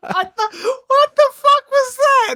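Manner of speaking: high, incredulous outburst; stunned at the weird noise; shocked. Real, not acted. Reacting to turkey noise.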